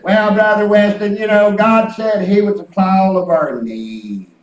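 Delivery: mock-quoting a lady who punches "needs"; "needs" stressed as the key word. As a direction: lean hard on the word "needs", the rest said in faith. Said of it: "just emphasize that word need".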